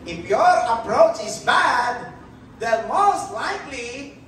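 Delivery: slow, smug self-justifying; mock excuse. Preacher mocking someone blaming others, slow and smug. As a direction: drawl out the lame excuse. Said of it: "Hindi mo pwede sabihin eh".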